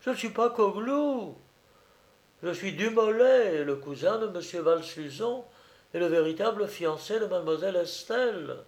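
high-pitched, pleading insistence; distressed protest. Acted. Dumolay claiming his fiancée, high protesting voice. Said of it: "cria l'infortuné Dumolay".

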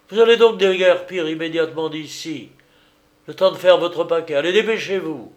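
rising to a loud, hurried order; angry dismissal. Acted. Doctor dismisses the culprit. (congédiement furieux, de plus en plus fort)

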